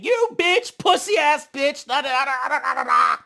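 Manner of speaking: high mock yell of insults; mock screaming. Heaven yelling insults at Dia on the mic, mock scream. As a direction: imitate her yelling on the mic.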